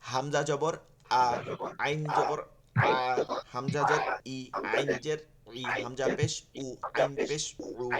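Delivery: হামজা জবর আ then আইন জবর আ, slow, each vowel held; slow recitation. Shown as a demonstration. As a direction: recite হামজা and আইন lines slowly side by side. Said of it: "চিকনটা মোটা হয়ে যাচ্ছে".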